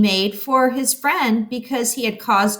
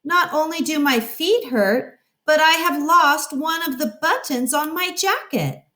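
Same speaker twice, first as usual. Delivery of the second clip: Toad complaining; 6 semitones higher than usual. Acted. Toad complains about sore feet.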